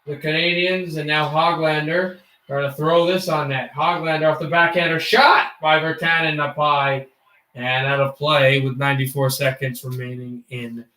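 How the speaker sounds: mock hockey commentator call; live play-by-play. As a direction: call the game like a broadcaster.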